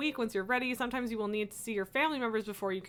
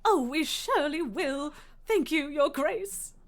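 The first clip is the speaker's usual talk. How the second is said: peasant voice; 3 semitones higher than usual. Acted. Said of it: "You love my peasant voice?".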